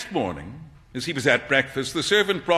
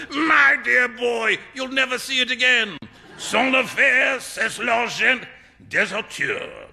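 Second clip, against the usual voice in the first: slow, high, laughing through the words; laughing hard; 8 semitones higher than usual. Acted. Trevor laughing at Hughie's gift to the beggar, roaring. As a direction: roar with laughter as you speak. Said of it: "burst into a roar of laughter".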